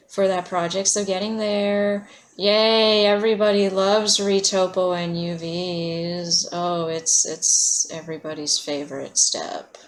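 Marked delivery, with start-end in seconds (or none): 2.4-9.8 dry sarcastic cheer. Real, not acted. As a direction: fake enthusiasm, deadpan underneath. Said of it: "I'm being sarcastic".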